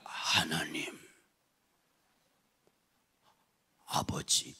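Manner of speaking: long pause between the two words; mock prayer with a very long gap; slow drawn-out prayer. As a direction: stretch it out like a senior who prays too slowly. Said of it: "하나님하고 아버지하고 만나기가 되게 어려워요".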